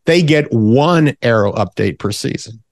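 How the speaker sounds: lightly hyped sales pitch voice; infomercial. Acted. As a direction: keep the TV ad pitch going. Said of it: "But wait, there's more".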